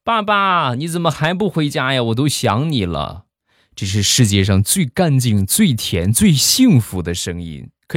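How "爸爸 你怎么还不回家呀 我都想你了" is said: put-on high little-kid voice, easing down at the end; lightly voiced young child on the phone; childlike voice. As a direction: plead like a small child missing a parent. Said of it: "一个稚嫩的声音".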